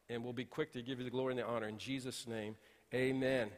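prayer. Acted. Pastor opens with prayer.

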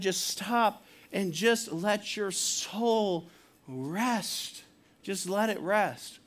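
slow, drawn-out, soothing plea; soothing pastoral plea. Real, not acted. Pastor urging the congregation to let their souls rest, soothing. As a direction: stretch the words out gently, inviting them to rest.

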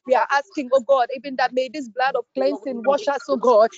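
pleading with God in short, pressing phrases; fervent pleading prayer. Real, not acted. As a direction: pray aloud urgently, punching each cry to God. Leads a prayer of repentance.

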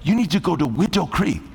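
lightly imitated Asian woman's accent; thick Asian accent. Asian woman directing Jody to a church, imitated Asian accent. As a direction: mimic an Asian accent, blurring Willow into Widow. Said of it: "with her thick accent".

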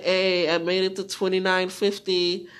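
loud listener's report in own voice; loud announcement. Acted. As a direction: call it out as a listener would. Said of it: "Be like".

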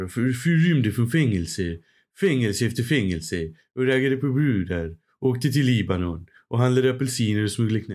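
lightly voiced Stockholm crook; a hint of a cocky Stockholm gangster; Clark Olofsson impression. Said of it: "Och han pratade så här".

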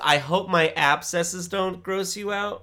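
slow nasal cartoon line; nasally voice. Shown as a demonstration. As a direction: pinch it through the nose. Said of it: "with my nasally voice".

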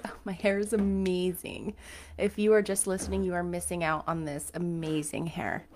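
dry sarcastic boast. Pretend. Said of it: "I'm being sarcastic".

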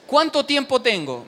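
loud, slow, pleading question; urgent loud plea. Retold or imitated. Student begging the director for time, loud and slow.

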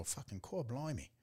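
quick mock-English exclamation; English accent. Husband quoting his picked-up slang, English accent. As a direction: let it slip out in a British accent. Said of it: "saying that in an English accent".

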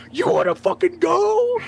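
slow, high-pitched aggressive dare; retold fight challenge. Drunk host squaring up for a fight, high and aggressive. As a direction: act out daring someone to fight.

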